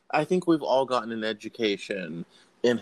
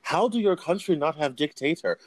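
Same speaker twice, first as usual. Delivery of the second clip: higher, mock Russian accent, broken English; imitating Russian accent; 8 semitones higher than usual. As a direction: lightly do a Russian friend's accent, pitched up. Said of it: "thick Russian accent".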